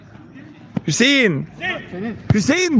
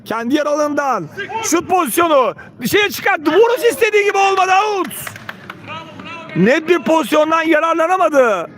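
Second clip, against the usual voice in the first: excited commentator; 4 semitones higher than usual. Real, not acted. Long-range shot just misses.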